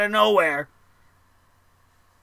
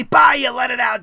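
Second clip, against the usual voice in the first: fired-up burst; 6 dB louder than usual. Shown as a demonstration. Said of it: "and then you finally".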